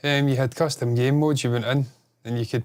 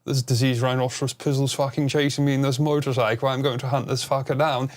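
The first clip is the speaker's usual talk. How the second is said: posh English gentleman accent at usual pitch and volume. Shown as a demonstration. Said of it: "does the posh English gentleman accent".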